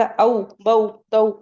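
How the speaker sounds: au, bau, tau said the way not to read them, without softness; wrong hard reading. Shown as a demonstration. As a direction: read "औ, बऊ, तऊ" firmly, not gently. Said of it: "ऐसे नहीं पढ़ना है".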